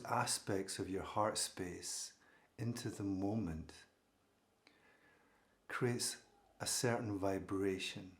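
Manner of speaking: calm, measured meditation guidance with long pauses; unhurried phrases, each left to settle; guided meditation. Real, not acted. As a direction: gently guide listeners into stillness. Leads a meditation.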